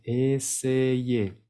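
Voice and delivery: essayer ending in a clear é, no R; final E sound. Shown as a demonstration. Teacher showing infinitives in -er end in é. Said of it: "vamos a escuchar el sonido E".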